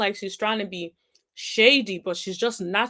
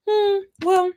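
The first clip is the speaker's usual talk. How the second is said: imitated coy turnaround; 10 semitones higher, 4 dB louder than usual. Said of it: "The way she turned that around".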